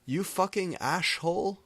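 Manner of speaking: high furious insult; angry shout. A narrator's reading. James insulting the guitarist, angry high shout. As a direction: shout it at him. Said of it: "James shouted angrily".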